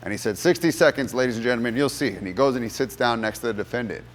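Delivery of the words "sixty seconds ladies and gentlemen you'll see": dramatic declaration. Retold or imitated. Attorney addressing jury dramatically.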